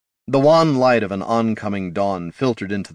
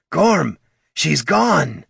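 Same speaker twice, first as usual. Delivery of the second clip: high, very slow lament; distraught troll; 9 semitones higher, 4 dB louder, much slower than usual. A narrator's reading. Troll pleading with his dwarf friend, slow distressed lament. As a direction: draw the words out in distress.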